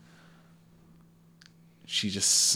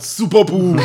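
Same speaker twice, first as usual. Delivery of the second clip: yelled attack name; 9 semitones higher, 13 dB louder than usual. Acted. Game master yells out Epsilon's signature attack, shouting. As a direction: bellow it like a superhero's finishing move. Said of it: "So he, he yelled".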